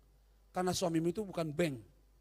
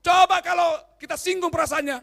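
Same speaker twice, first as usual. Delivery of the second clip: loud, higher, crying shout; 8 semitones higher, 10 dB louder than usual. Acted. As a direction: wail it out like a hurt child. Preacher shouts about hurt feelings.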